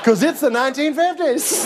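folksy fifties Southern neighbor; hammed-up Southern small talk; Southern accent. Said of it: "You're Southern all of a sudden".

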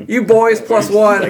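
high, slow, loud proclamation; grateful Rebus. Acted. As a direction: address the group in character, stretched out and emphatic.

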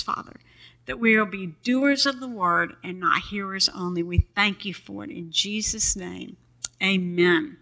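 earnest pastor's prayer, steady and reverent. Acted. Pastor opening the service in prayer, reverent. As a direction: pray over the congregation before the sermon.

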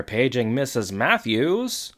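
slow announcement with a lifted ending; imitated intercom page. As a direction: lightly mimic a public-address page. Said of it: "over the speakers, the intercom, you hear".

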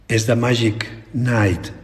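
ordinary talk, nothing marked

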